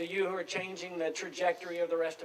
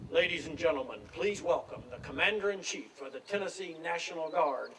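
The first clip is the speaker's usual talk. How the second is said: a light take on a stadium announcer over the loudspeaker; lightly voiced formal introduction, like a PA announcer. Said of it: "the announcer comes over the loudspeaker and says".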